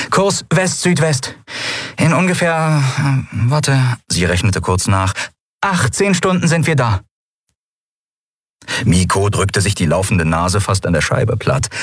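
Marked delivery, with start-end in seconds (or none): 0.1-7.0 Endriel, navigating. A narrator's reading. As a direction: give the course, pause to reckon. Endriel gives course.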